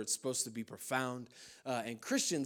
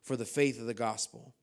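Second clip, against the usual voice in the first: scripture reading; 3 dB louder than usual. Acted. Reads scripture aloud.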